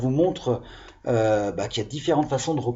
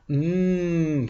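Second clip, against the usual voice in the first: long, drawn-out mmm of enjoyment; slow savouring "mmm"; yummy hum. Acted. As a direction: hum as if tasting something good. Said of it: "comme quand quelque chose est bon".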